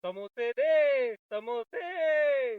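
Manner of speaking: slow, drawn-out mock stomach wail; playful hungry-belly plea; stomach crying for samosas. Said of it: "प्रत्येक दहा मिनिटांनी ओरडतात".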